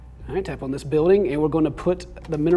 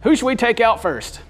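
Rick voice; 7 semitones higher, 5 dB louder than usual. Acted. Voicing Rick's battle lines.

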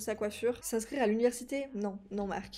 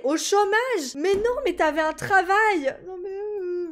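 loud, high cry of disbelief; high-pitched outraged wail at bad news; exasperated, annoyed; 8 semitones higher, 7 dB louder, slower than usual. Real, not acted. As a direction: protest loudly, turning into a whine. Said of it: "Oh, je suis énervée".

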